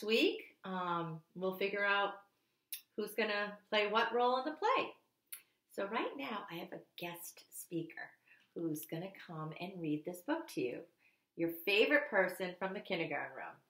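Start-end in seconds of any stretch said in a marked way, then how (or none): 5.7-10.2 hushed teacher whisper. Real, not acted. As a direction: let them in on a surprise. Teacher builds suspense for guest.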